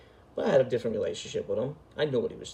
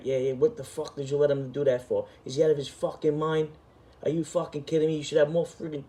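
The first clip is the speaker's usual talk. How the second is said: mock angry rant, pitched higher; a hint of a boss tearing into him; retold scolding; 4 semitones higher than usual. Acting captain chewing him out over the phone, mock angry. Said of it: "and I'm getting yelled at".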